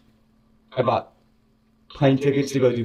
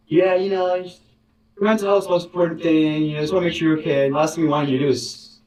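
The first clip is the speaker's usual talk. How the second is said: lightly mocking lawyerly reassurance; a hint of scripted concern; rehearsed corporate voice; 4 semitones higher than usual. Imitating the boss's rehearsed speech, lightly mock-reassuring. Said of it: "as if rehearsed by his lawyers".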